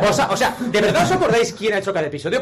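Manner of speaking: high, loud, laughing protest; laughing and incredulous, voice pushed up high; amused disbelief. Real, not acted. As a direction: protest through laughter, pitch climbing. Amused disbelief at being asked.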